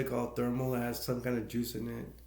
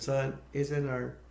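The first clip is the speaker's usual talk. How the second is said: mock sugary parents; 2 semitones higher, 4 dB quieter, slower than usual. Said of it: "he imitates the parent".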